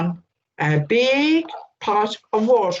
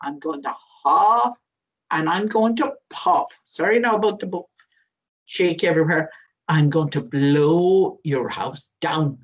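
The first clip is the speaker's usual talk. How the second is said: wolf threat; 4 semitones lower than usual. Acted. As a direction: drag out the huffing and puffing. Wolf threatens brick house.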